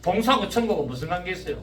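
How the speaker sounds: usual speaking voice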